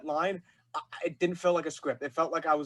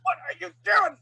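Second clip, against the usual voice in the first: much higher, louder mock shout; imitated scream; 13 semitones higher, 7 dB louder than usual. Fan quotes a favorite scene to its actor, imitated high scream. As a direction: scream the question in imitation of a game villain. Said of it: "when you were screaming".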